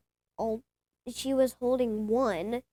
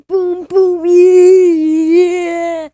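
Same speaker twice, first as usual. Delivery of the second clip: loud, high hammed-up celebration shout; mock cheering; 6 semitones higher, 19 dB louder, much slower than usual. Child playing the joyful woman for grandpa, loud mock cheering. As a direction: cheer like you found your lost coin.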